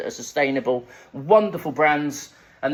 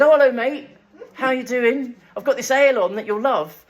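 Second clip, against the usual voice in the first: high, loud, overly friendly pub greeting; eager welcome; 8 semitones higher, 5 dB louder than usual. Retold or imitated. Bar staff gushing at the lookalike, eager and high. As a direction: gush at him like a star regular.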